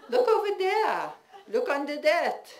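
put-on high, loud commanding old mother; bossy mother. Mother directing staff searching for her teeth, high and loud. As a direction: order them about like a queen.

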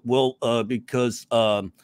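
lightly imitated awkward fumbling, a bit low; mock hesitant. Comic imitating an audience member cornered on racism, hesitant fumbling. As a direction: grope for words like someone caught out.

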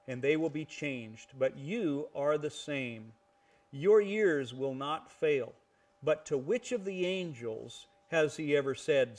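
measured, emphatic Bible reading; scripture reading. Acted. Teacher reading the chapter's closing verses, deliberate scripture reading. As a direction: proclaim the verses phrase by phrase.

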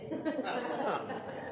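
short delighted laugh; amused laugh. Real, not acted. Preacher laughing at the congregation's fluent Portuguese. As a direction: laugh warmly at the crowd.

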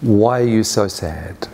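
slow, gently probing question; gentle questioning. Retold or imitated. Spirit guide looking closely at the traveller, gentle questioning.

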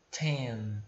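Ten with a puffed t; breathy t. Shown as a demonstration. Teacher showing the aspirated t, puff of air. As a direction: blow out the t of Ten. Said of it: "a pronúncia é soprada".

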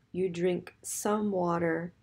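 ordinary talk, nothing marked

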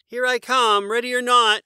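very high, loud call; yell. A narrator's reading. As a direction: yell it out gleefully. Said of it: "Morris yelled".

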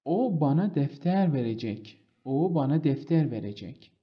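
slow, every word apart, "defter" stressed; slow dictation. Shown as a demonstration. Teacher to students, slow example sentence. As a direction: read slowly so the class can follow.

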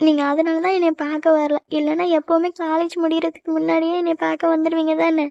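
understated tearful reproach; crying. Acted. Girlfriend hurt that he never came to see her, crying. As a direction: complain with a touch of crying. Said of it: "இப்படி அழுதுட்டு இருக்க".

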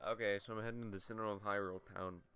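slight lisp, quick. Real, not acted. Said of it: "I feel like I said that with a lisp".

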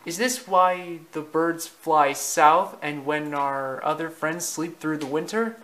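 lightly voiced fawn asking his question; young Bambi, curious. Young Bambi asks his father about winter, curious.

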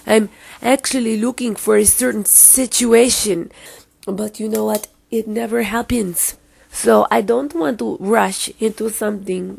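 mock European accent wandering between Spanish and French; wobbly Spanish-French-Italian accent; put-on shifting foreign accent. Vlogger chatting before her bath, in a put-on foreign accent. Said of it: "my accent keeps going back from Spanish to French".

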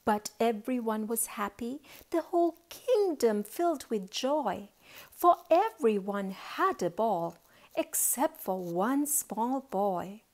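lilting storybook reading; story narration. A narrator's reading. Auntie tells children of a boy and his ball, lilting narration. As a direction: tell it in measured, rhyming phrases.

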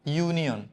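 ইউনিয়ন opening on a clear "yoo"; ইউনিয়ন said distinctly as "yoo-nion"; initial Y sound. Shown as a demonstration. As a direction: demonstrate the "yoo" that begins ইউনিয়ন. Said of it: "খেয়াল করো".

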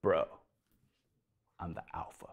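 whispered, low and close; Jesus whispering to the crowd; leaning-in whisper. Acted. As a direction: lean in and breathe it. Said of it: "Jesus leans in and says".

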